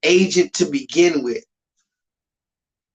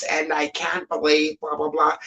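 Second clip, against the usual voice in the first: soft, polite talk-show voice; mock a rapper being nice on daytime TV; a rapper on Ellen; 2 semitones lower, 5 dB quieter than usual. Mocking a rapper's talk-show voice for viewers, softer and polite. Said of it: "he's gonna talk like this".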